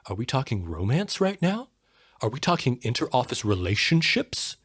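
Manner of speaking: incredulous questions, each swinging up at the end; mock freak-out. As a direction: imitate alarmed HR folks asking in disbelief. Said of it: "they freak out 'cause they're like".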